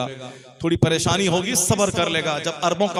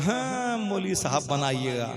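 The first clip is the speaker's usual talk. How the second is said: mock disapproving relative; 4 dB quieter than usual. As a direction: mimic a brother scoffing at the idea. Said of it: "हमारा भाई क्या बोलता है".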